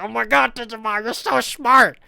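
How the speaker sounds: high gushing fan voice; gushing classmates. Retold or imitated. Classmates gushing over the smart kid, high mock awe.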